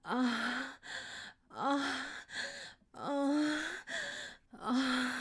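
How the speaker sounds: rising moans. Acted. Moaning during sex.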